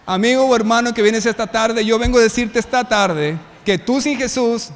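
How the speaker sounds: loud preaching call to the congregation. Acted. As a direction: proclaim it loud to the whole church. Preacher addresses the congregation forcefully. (predicación fuerte a la congregación)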